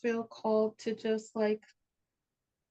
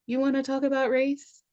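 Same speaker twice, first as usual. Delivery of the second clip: quoting herself; 8 semitones higher, 6 dB louder than usual. Retold or imitated. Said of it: "And I'm like".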